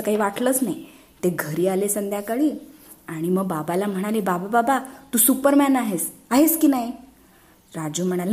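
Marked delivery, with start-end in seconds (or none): 4.2-6.9 put-on higher, pestering little-boy voice; eager child pleading. Boys pestering their father, eager higher child voice. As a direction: coax dad eagerly.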